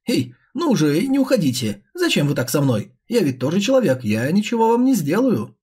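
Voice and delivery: wheedling, sing-song coaxing; coaxing monster face. Acted. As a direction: sweet-talk them to come back. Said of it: "усердно улыбаясь, продолжало уговаривать".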